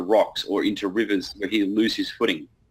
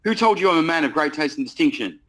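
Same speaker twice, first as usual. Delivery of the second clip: objecting prospect; 5 semitones higher, 3 dB louder than usual. Retold or imitated. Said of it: "Yes, they do object".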